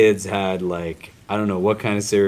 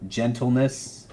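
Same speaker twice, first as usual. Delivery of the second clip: each word softer with long pauses between; soft, lingering list; 5 dB quieter, much slower than usual. Shown as a demonstration. Teacher listing what the word holds, soft and unhurried. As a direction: savour gentleness, softness, kindness, love slowly. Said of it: "All of this goes into".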